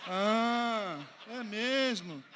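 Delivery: loud, laughing sneer; mocking laugh. Pastor mocking the couple who slighted him, laughing. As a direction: jeer through a laugh. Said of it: "o velho homem ressuscitou".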